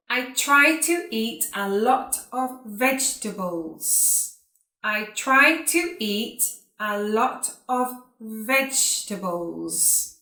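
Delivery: careful, spaced-out words with pauses between phrases; repeat-after-me model. Shown as a demonstration. Teacher saying sentences for students to repeat, carefully enunciated. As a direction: enunciate each word for learners to copy. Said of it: "like you to repeat after me".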